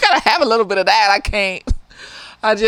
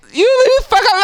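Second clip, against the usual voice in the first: angry; 9 semitones higher, 6 dB louder, faster than usual. Acted. Angry retort.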